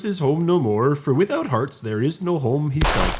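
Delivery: put-on lifted Irish-accented recitation. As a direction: read it out with an Irish brogue. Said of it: "hear me start speaking in an Irish accent".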